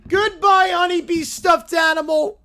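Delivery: loud, high, dramatic goodbye; little bear bidding honey farewell; high cartoon bear farewell. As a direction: sing out a mock-tragic goodbye. Bear tosses toy.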